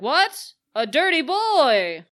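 high, loud scandalized gasp; hammed-up outraged yell; mock shocked outcry. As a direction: cry out like a shocked crowd. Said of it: "everyone's like".

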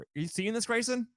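high, giddy and hushed; high excited squeal. Real, not acted. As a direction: squeal it to a friend. Thrilled about movie news.

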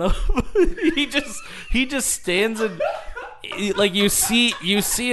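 cracking up mid-sentence, pitch climbing; laughing. Real, not acted. Friend retells him blocking the shot, laughing. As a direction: struggle to get it out through real laughter.

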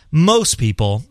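"most people" with the weight on "most"; slow down and underline "most"; stress on most. Real, not acted. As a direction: lean firmly on "most". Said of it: "I emphasize the word most".

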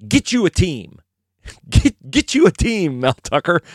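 high, mocking yelled taunt; mock scream. Taunting the rival coach, a mock screamed heckle. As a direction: yell it at the rival fan base like a heckler. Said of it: "once screamed at an opposing".

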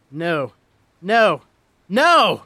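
rising panic into a full scream. A narrator's reading. Jack seeing his house set on fire, screaming. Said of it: "Jack screamed".

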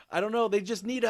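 high, loud attempt at a Russian accent. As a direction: try a Russian accent and crack up. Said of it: "I can't do a Russian accent".

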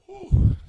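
breathless laughing whew. Real, not acted. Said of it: "why am I out of breath".

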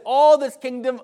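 loud, grand offer in a lightly played devil role; big, emphatic mock-devil offer; tempting devil. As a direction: proclaim it high and loud as the preacher's tempter. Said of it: "He says".

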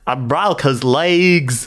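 put-on slow, heavy Ukrainian accent. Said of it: "maybe Ukrainian?".

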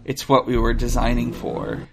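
lightly voiced low android; calm measured android; robot voice. Reads robot's lines.

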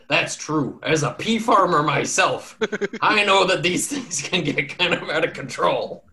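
lightly voiced old pea farmer; folksy farmer musing.

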